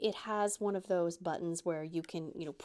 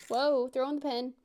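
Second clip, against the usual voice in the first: surprised; 4 semitones higher, 6 dB louder than usual. Real, not acted.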